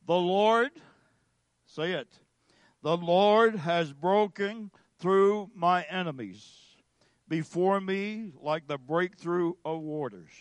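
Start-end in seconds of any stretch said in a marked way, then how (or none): 0.0-0.7 loud lead-in for group reading; raised voice, leading a recitation. Real, not acted. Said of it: "read it together out loud". 2.8-10.3 slow, measured congregational reading; deliberate scripture recitation, loud at first. Real, not acted. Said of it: "read it together out loud".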